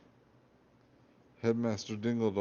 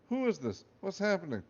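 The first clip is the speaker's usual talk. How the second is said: panicked; 8 semitones higher than usual. Acted. Boy panicking at voice in head.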